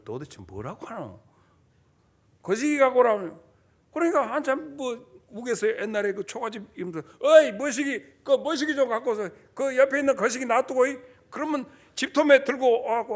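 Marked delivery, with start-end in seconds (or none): 0.0-3.4 puzzled Gyeongsang dialect question. Retold or imitated. Preacher imitating a confused Gyeongsang man, Gyeongsang dialect. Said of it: "경상도 사람들은". 7.2-11.0 Jeolla dialect call, a bit louder. Retold or imitated. Preacher imitating Jeolla villager giving orders, Jeolla dialect. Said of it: "전라도 사람들은요".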